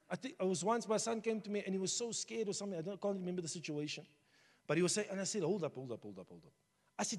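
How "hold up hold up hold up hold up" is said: soft hushing. Retold or imitated. Father calming a scared son.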